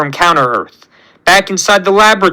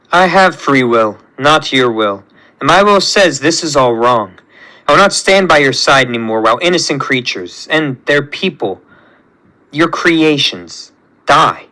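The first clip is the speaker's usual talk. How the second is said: low, restrained rebel hero; lightly lowered voice, solemn defiance; defiant creation; 3 semitones lower than usual. Acted. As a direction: stand firm against your maker.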